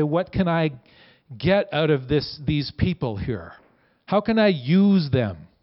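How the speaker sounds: slow, calculating voice of a user; scheming, self-serving tone. Acted. Preacher voicing a powerful person who uses people, in a scheming tone. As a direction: sound like someone sizing people up. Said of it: "you're kinda getting my tone there".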